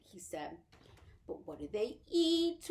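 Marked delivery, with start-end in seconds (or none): 1.3-2.7 wailing. A narrator's reading. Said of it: "wailed Homily".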